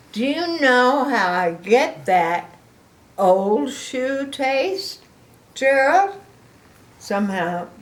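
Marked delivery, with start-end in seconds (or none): 0.1-6.2 slow, louder, higher; disgusted elephant. Acted. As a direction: grimace through the words. Gerald disgusted.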